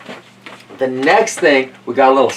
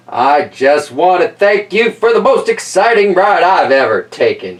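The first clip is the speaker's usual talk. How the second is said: a lightly raised, glad-handing politician; excited mayor voice; 4 semitones higher than usual. Acted. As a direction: beam like a thrilled politician. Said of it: "That's my mayor voice, 'cause he's all excited".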